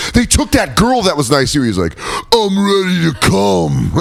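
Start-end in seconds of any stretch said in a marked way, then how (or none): 0.1-1.6 movie informant. Acted. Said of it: "And then they're like". 2.3-3.9 high, drawn-out hammy cry; mock climax. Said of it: "like a violence orgasm".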